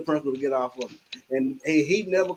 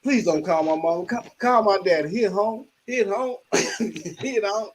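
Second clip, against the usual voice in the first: higher mock pleading; teen begging the principal not to call his mother, lightly higher; pleading kid; 3 semitones higher than usual. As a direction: beg the principal, a bit higher. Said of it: "I told him when he said".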